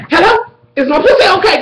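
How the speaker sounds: high-pitched mock-panicked president. Retold president anxious for his lover.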